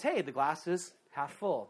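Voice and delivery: slow, lightly cheerful mock optimist; a touch of a bright smile in it; hint of sunny optimism; smiling optimist. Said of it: "The optimist smiles and says".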